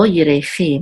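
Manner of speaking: yirechi with the last syllable CHI stressed. Shown as a demonstration. Teacher showing the accent, stress on final CHI in yirechi. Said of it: "the accent is on the last syllable".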